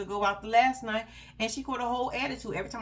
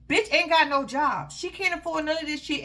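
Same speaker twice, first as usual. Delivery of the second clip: indignant rant; 5 semitones higher, 5 dB louder than usual. Real, not acted. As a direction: spit it out in disbelief. Ranting about the cheap boyfriend.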